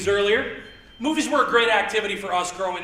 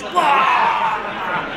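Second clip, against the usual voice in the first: possessed scream. Retold or imitated. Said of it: "I was Linda Blair from The Exorcist".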